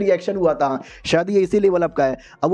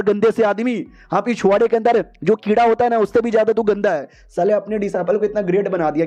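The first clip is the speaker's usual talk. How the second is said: abusive scolding; 3 semitones higher than usual. Acted. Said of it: "इतनी गंदी गंदी गाली दी जाती है".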